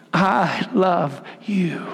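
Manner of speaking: hushed, slow and close; tender whisper. Acted. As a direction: breathe it like a secret. God's promise whispered to congregation.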